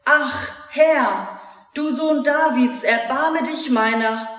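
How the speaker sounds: a mild, chanted cry for mercy; pleading cry. Acted. Mother begging Jesus for her daughter, a lightly voiced pleading cry. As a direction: let it rise like a plea. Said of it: "ruft, ja schreit".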